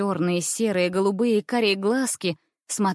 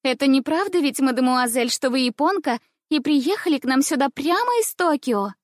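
feigned innocence; 6 semitones higher, 3 dB louder than usual. Acted. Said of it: "как ни в чём не бывало".

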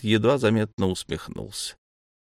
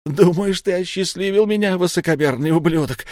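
high, loud, spiteful retort; a bitter wizard turning on the god; venomous fury; 9 semitones higher, 4 dB louder than usual. A narrator's reading. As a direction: spit the insult at him. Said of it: "прошипел Ирдегус".

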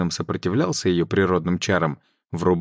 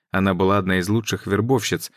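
plain reading voice

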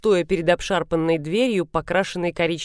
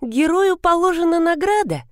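mock praise; 12 semitones higher than usual. A narrator's reading. Heroine mocking the hero.

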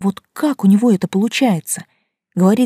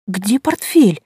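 squeak; 3 semitones higher, 4 dB louder, slower than usual. A narrator's reading. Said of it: "пискнула я".

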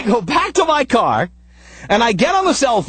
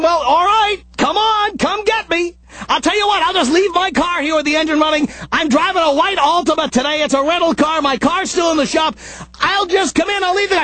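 exasperated rant; 5 semitones higher than usual. Retold or imitated. Exasperated reply to Gary.

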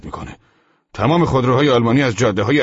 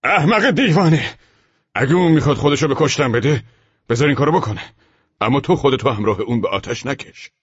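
high, loud, heated outburst; agitated shout; 11 semitones higher, 7 dB louder than usual. A narrator's reading. Sergeant stopping his comrade from running down, shouting agitatedly. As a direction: yell at him, easing slightly toward the end. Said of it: "با هیجان فریاد زد".

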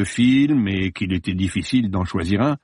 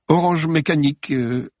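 higher, halting "Orange Mécanique"; stammering; 7 semitones higher than usual. Acted. Judith answering nervously, mildly flustered. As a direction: blurt it out, flustered. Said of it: "bredouilla-t-elle".

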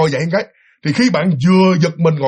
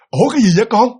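lightly voiced puzzled dad, rising question; a touch of alarm in a dad's question; startled father; 3 semitones higher, 4 dB louder, faster than usual. Father peeking in at his child, startled.

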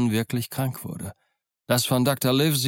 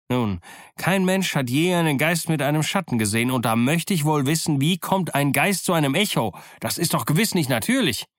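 high, musing, sly; reasoning pirate captain; 4 semitones higher than usual. Acted. Silver argues away the ghost to his crew, high and musing. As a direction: think it through aloud, pitched high.

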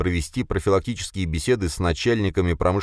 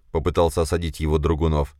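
ordinary delivery, nothing marked

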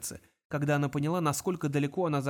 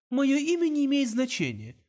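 higher youthful voice on the phone; young caller, cool and sure; 10 semitones higher, 4 dB louder than usual. A narrator's reading. Young caller on phone to Kong, youthful voice. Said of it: "услышал он юношеский голос".

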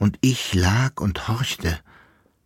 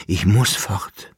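slow farewell. Acted. Abschied wiederholt, langsam.

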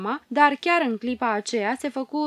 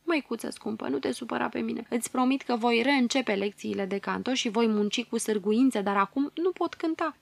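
crying. Acted. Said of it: "plângând îi zise".

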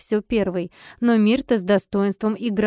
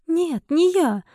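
higher-pitched air of authority; self-important; 7 semitones higher, slower than usual. A narrator's reading. Heroine answers the angry guest, self-important. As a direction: deny it with mock authority. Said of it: "ответила я с важным и авторитетным видом".

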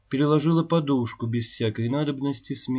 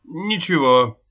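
perked up; 4 semitones higher, 7 dB louder, slower than usual. A narrator's reading. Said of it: "оживился Семён Андреевич".

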